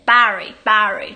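bury的母音念得特别明显、拉开; 把bury的元音放大发清楚; vivid vowel bury. Shown as a demonstration. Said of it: "把那个啊念得特别的明显". (示范加拿大人母音很明显的bury)

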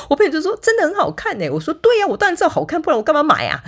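high, loud, eager recounting; mock-excited back-and-forth; excited retelling. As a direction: bubble over as you replay it. Retelling excited shopping chat.

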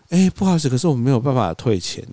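a hint of the polite boss lady saying sorry; apologetic shop owner. 模仿老板娘道歉. (略带模仿老板娘抱歉的语气)

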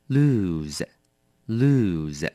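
slow, careful "lose" with a long z ending; careful pronunciation of lose. Shown as a demonstration. Teacher modelling "lose" for listeners, slow and careful. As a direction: spell out "lose" slowly. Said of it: "要小心咯，它念成lose".

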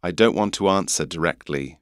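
English "answer" with broad A, no R; English accent. Shown as a demonstration. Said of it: "so in an English accent".

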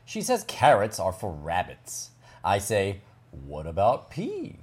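lilting storybook narration with wide pitch swoops; reading to children. Acted. Host reads Charlie's story to children, lilting narration. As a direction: read it as Charlie explaining his little sister, lively and measured.

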